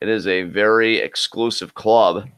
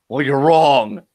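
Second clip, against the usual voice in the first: higher cocky retort; mock arrogant reply; 5 semitones higher, 3 dB louder, much slower than usual. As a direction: fire back like the vain wrestler. Continuing the Aries bit.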